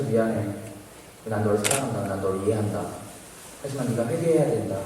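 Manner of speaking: soft, subdued sincerity; tender reconciliation. Retold or imitated. Student embracing the intruder, tender and forgiving. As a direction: gently reassure him, keeping it hushed.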